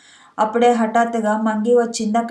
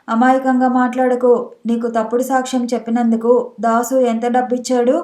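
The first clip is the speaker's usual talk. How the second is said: plain reading voice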